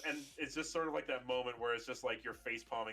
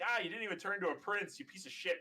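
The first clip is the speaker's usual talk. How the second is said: high, mock-angry yell at the porcupine; angry outburst; 10 semitones higher, 3 dB louder than usual. Girl stung by porcupine quills yells at it, mock angry. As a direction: act out the stung girl's fury. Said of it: "she's like".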